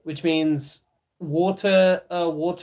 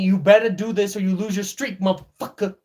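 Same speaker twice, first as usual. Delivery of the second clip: brisk, louder mock threat; threatening app nag; 3 semitones higher, 3 dB louder, faster than usual. Duolingo warning a learner about their streak, mock threatening. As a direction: rattle it off as a pushy reminder. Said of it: "Duolingo's telling me".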